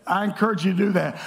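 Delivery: normal talking voice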